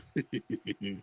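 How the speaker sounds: quiet wicked witch chuckle; low gloating cackle; soft evil cackle. Acted. Witch laughs at her plan.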